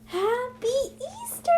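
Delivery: bright, high Happy Easter; cheerful greeting. Real, not acted. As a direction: sing it out to fans.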